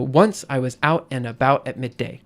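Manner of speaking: lilting triple rhythm, stressing "Once" and "out"; three-beat feet. Shown as a demonstration. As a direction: read "Once I was out and about at midday" with beats on "Once", "out", "-bout". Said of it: "I like doing three beats per foot".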